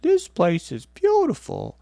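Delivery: high, slow, wide-eyed little organ voice; little liver's awe. Acted. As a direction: marvel like a tiny liver seeing a cathedral. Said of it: "poor little liver looking around ... going".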